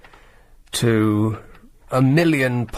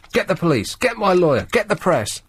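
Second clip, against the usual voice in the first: mock diva demands; 5 semitones higher than usual. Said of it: "scream into my mobile".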